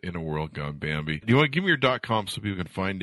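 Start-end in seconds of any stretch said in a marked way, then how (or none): 0.0-1.2 movie trailer voice, softer; dropping announcer voice. Shown as a demonstration. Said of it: "radio voice".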